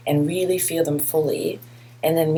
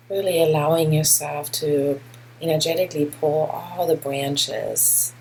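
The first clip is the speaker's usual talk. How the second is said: guided meditation. Real, not acted. Teacher guiding listeners through a grounding body scan, measured meditation delivery. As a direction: lead them gently inward, unhurried, pausing between phrases.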